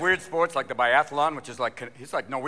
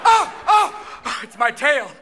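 high, loud dog yelps turning into words; startled dog; 9 semitones higher, 7 dB louder, much slower than usual. Acted. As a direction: yelp like a surprised dog. Dog discovers its own tail.

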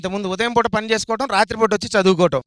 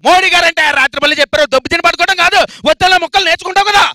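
shouting; 8 semitones higher, 7 dB louder than usual. Acted. Bossy shouting lecture.

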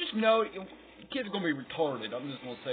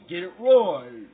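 Billy's voice; 4 semitones higher, 4 dB louder than usual. Retold or imitated. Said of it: "he says it".

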